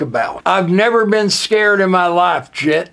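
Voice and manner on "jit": ordinary talk, nothing marked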